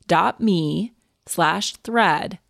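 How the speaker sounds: upbeat sponsor read, steady and clear. Acted. Host reading a sleep sponsor ad, bright ad-read delivery. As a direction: sell the mattress pad to listeners.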